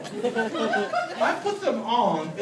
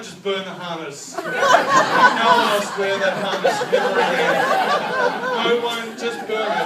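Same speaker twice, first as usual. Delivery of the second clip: mock fed-up order; 11 semitones higher, 8 dB louder than usual. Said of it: "I'm like".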